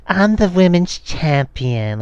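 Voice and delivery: slow, put-on overbite voice imitating her; mock champion promo with an underbite. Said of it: "sounds like she has an overbite or an underbite".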